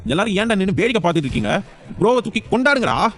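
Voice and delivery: rising, rallying call to the crowd; excited cheer. Acted. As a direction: get everyone to lift him up in celebration. Friends cheering the hero.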